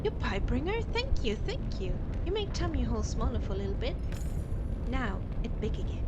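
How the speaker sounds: big-eyed hungry ghost pleading for food; hungry monster voice. Acted. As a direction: beg like a starving spirit. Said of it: "I don't know why I'm saying it like that".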